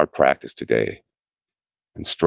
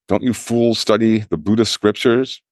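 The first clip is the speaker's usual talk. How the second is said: higher-pitched scolding shout, not much louder; 6 semitones higher than usual. Acted. Master scolding his grumbling monks, a higher-pitched shout. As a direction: rebuke the fools with a raised voice. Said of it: "He shouted out loudly".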